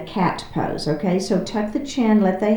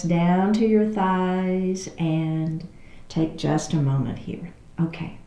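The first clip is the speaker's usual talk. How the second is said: guided breathing; 4 dB quieter than usual. Real, not acted. Teacher settling the class before practice, calm guided breathing. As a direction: ease them into the breath, unhurried.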